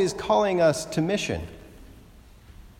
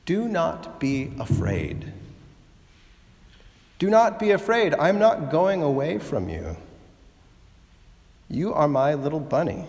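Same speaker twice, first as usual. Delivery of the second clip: motherly reassurance. Retold or imitated. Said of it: "very Mother Bunny".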